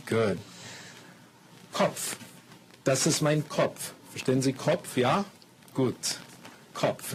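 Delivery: slow, exaggerated words for learners; careful classroom German, slowed down; slow teacher talk. Shown as a demonstration. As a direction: spell it out slowly for beginners. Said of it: "you have to watch me carefully".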